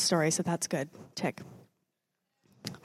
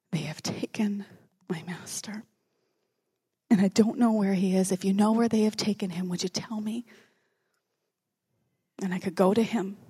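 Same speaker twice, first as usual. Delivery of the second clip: hushed plea; 3 dB quieter than usual. Acted. Mary pleading to the gardener.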